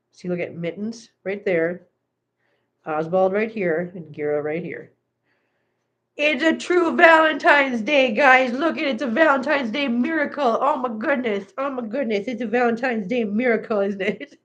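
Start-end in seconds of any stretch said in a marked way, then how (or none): 6.2-14.4 higher, singsong wonder; playful marvelling. Real, not acted. Owner marvelling at three pets sharing her lap, high singsong. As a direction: gush over it in a lifted singsong.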